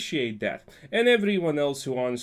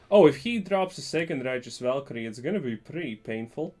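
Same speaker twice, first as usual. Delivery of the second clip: ordinary talk, nothing marked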